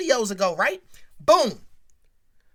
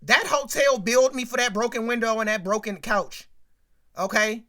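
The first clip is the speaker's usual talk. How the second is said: Tracy's angry demand; 4 dB louder than usual. Retold or imitated. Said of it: "Tracy Spencer got that boy in that limo and was like".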